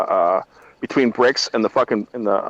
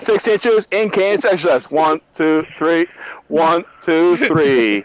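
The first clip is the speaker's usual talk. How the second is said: slow, drawn-out count, a bit higher, called out like on the drill field; drill sergeant calling cadence; 3 semitones higher, much slower than usual. Retold or imitated. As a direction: bark the count at the recruits.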